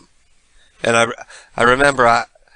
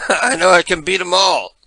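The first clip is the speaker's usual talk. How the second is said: laughing through it; 7 semitones higher than usual. Retold or imitated. Laughing while quoting himself.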